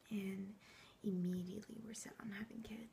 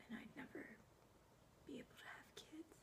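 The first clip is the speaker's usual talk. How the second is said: very soft, higher at the end; hushed painful admission; 5 semitones higher, 14 dB quieter than usual. Acted. Woman confides she can never have kids, hushed and pained. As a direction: let it trail into near silence. Revealing she was left infertile.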